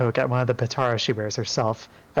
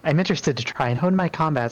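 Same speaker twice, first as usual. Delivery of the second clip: a touch higher, polite goddess; lightly raised, courteous voice; lightly voiced Enu; 4 semitones higher than usual. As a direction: greet the newcomer graciously. Enu speaks in character.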